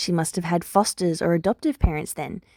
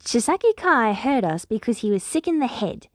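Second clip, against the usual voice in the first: firm; 4 semitones higher than usual. Acted. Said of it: "Big Eri says firmly".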